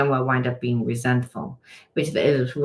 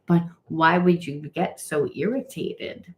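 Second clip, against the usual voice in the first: voicing Spirit; 5 semitones higher than usual. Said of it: "Spirit says".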